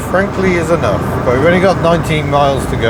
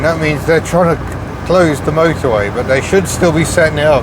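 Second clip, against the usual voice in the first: raised voice over road noise; shouting over machinery. Real, not acted. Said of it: "I'm shouting over the noise of this bloody car".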